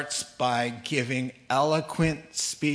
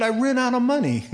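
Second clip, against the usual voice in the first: sheepish answer; 10 semitones higher, 6 dB louder, faster than usual. Retold or imitated. Man's answer retold.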